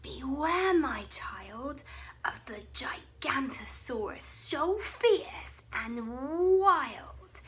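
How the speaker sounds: hushed, spooky mother's warning; mum's warning. Acted. A mother warning her child about the monster, hushed and spooky. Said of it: "The dinosaur mum said".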